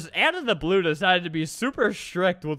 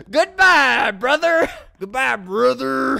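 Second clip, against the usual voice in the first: mocking farewell; 3 semitones higher, 5 dB louder, slower than usual. Gleefully sending the brother away.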